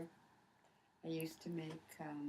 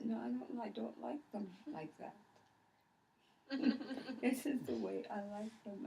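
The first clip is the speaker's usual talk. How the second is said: imitating the stubborn child; 7 semitones higher, 3 dB louder than usual. Child's stubborn reply voiced.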